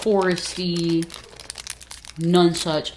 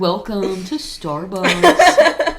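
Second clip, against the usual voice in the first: barista voice; much slower than usual. Pretend. Barista voice mockery.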